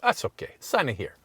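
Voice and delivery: relaxed Italian clerk letting it go; light Italian accent, casually waving it off. Retold or imitated. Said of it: "I pick up accents really quickly".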